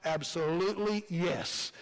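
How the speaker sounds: slow, drawn-out ABSOLUTELY YES; emphatic. Acted. Job answering his own question about living again, emphatic. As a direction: stretch "Absolutely yes" out slowly and firmly. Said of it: "emphatic answer".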